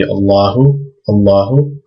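Allahu said clearly, the l doubled; Arabic word. Shown as a demonstration. Teacher reading Allahu aloud. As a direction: sound out Allahu with a held l. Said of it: "So this would be".

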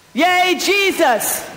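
slow, high, drawn-out cheer; loud cheer. Shown as a demonstration. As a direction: stretch it out so everyone hears. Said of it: "speak loudly now".

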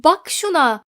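a shaken husband calls from outside; trembling voice. Acted. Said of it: "Kiraz Bey'in titreyen sesi".

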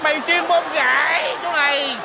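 indignant accusation. Acted. Man catching neighbour Tư in disguise, indignant.

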